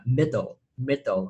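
"middle" slowly, showing its L ending; final L sound. Shown as a demonstration. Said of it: "cái âm kết thúc của nó là âm L".

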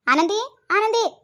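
high, slow drawn-out call across the house; calling out a name. Acted. Mother-in-law calling her daughter-in-law out, high drawn-out call. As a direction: call her from the next room, stretching the name. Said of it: "तुम्ही आवाज तर द्या खरी".

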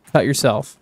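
"Cut yourself" said flat and blunt; a deadpan order; blunt command. Real, not acted. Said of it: "That was really aggressive".

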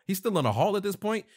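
high, loud burst of disbelief; incredulous aside. Real, not acted. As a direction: break off reading, loudly baffled. Reader reacts in disbelief to the story.

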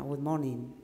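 subdued, low good morning; low-pitched greeting. Shown as a demonstration. Coach shows how not to start a presentation, low-pitched. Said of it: "you need a high pitch".

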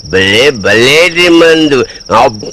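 low, drawn-out relish; savouring the drink. Acted. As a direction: stretch the words out slowly and low. (నెమ్మదిగా, సాగదీస్తూ ఆస్వాదించే స్వరం)

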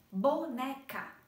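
"Boneca" broken slowly into three beats; slow, separated syllables in "Boneca". Shown as a demonstration. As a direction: sound out "Boneca" as Bo-ne-ca, one push per syllable. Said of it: "quantas vezes a gente emite esse som".

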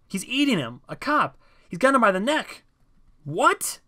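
very high, loud, frantic play-by-play; excited shouting. A narrator's reading. John reporting the attack from the statue, frantic shouting. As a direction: yell each new horror as it happens. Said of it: "shouted John".

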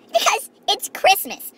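slow, high drawn-out line; slow sing-song holiday line; festive. Pretend. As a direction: stretch it out warmly festive. Festive sign-off.

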